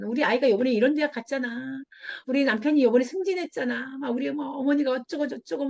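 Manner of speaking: mock boastful chatter, running on; bragging. Friend bragging about family on the phone, mock boastful. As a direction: rattle on proudly, as a parody. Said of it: "막 내 애기 자랑하는 거예요".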